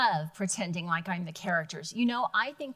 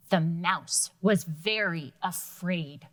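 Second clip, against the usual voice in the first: slow expressive narration; storytelling narration; 3 semitones lower, slower than usual. Shown as a demonstration. Librarian narrating a fairy tale line for the class. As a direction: read it like a storyteller. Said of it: "read it with expression".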